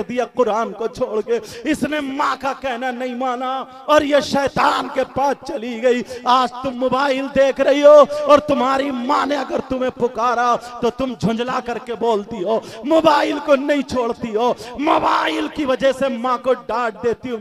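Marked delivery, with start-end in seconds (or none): none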